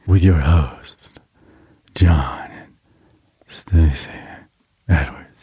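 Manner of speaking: very slow, low spooky announcer; horror intro voice. Retold or imitated. Host imitating old intro's credits, slow horror voice. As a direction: drag out each name eerily, partly whispered. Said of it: "that Haunted South intro you did".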